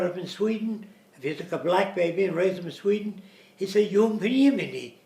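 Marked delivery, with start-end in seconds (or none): 3.9-5.0 "Jumpen Jiminy" with a Swedish "j" and "-en" ending; Swedish pronunciation. Retold or imitated. Lecturer showing Swedish-accented "Jumpen Jiminy". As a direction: say "Jumpen" with a y-sound J, louder. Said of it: "they pronounce things differently".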